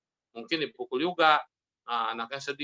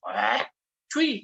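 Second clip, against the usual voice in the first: mimed hawk and high-pitched spit; mock taxi driver spitting; imitated spitting; 5 semitones higher than usual. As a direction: hawk it up, then spit sharply. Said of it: "suka ngeludah tuh".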